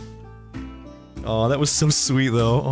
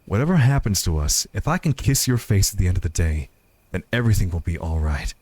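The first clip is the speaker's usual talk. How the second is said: lightly voiced sincere sweetheart in a story; lightly acted heartfelt speech; Joseph, earnest and reassuring. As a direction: confess it, then reassure your partner.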